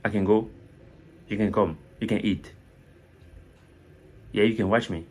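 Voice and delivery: "can" said short, like "ken"; quick, light CAN. Shown as a demonstration. Teacher listing examples for learners, quick light "can". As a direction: skip lightly over "can" to the verb. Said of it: "on ne perd pas le temps dessus".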